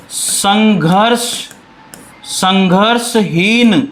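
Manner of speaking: stretched-out term, word by word; slow dictation. Shown as a demonstration. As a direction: dictate it slowly for students. Teacher dictates a new term.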